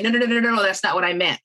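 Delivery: rapid-fire run of no's, then explaining; mock protest. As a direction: act out hurriedly correcting a misunderstanding. Acting out a clarification in conversation.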